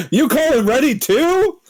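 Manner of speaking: high, slow laughing shout; laughing disbelief. Real, not acted. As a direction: crack up in disbelief. Laughing shocked question.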